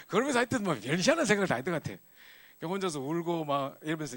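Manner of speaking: laughing at himself. Real, not acted. Laughing at his silly fears.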